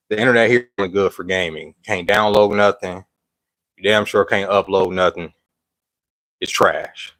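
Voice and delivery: breathless, catching breath between phrases. Real, not acted. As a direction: talk while still winded. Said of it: "I'm sorry I'm out of breath".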